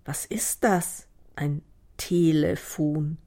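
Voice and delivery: slow, wondering question; wide-eyed puzzlement. A narrator's reading. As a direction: sound out an unknown word slowly. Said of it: "sah sie mit großen Augen an". (langsam und verwundert fragend)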